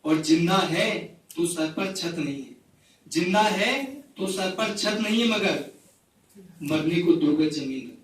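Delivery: measured, repeating recital of a poem; poetry recital. Acted. Poet reciting a rain poem to the gathering, measured recital. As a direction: recite each line twice, savouring it.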